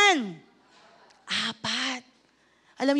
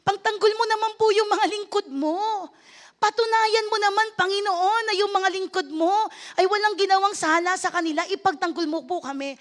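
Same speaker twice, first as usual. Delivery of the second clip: a retold tearful cry for help, raised up; tearful prayer; 4 semitones higher than usual. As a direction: pastor pleading with God to defend them, tearful and raised. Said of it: "Pero umiiyak po ako".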